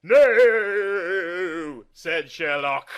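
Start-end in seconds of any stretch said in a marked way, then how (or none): 0.0-1.9 loud, high desperate shout. Acted. Sherlock yells at John not to smash the skull, loud and high. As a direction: yell it to stop him.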